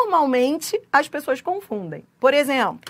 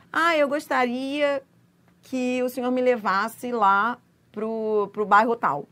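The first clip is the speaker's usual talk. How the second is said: polite request; slower than usual. Retold or imitated. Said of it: "Fala assim no táxi".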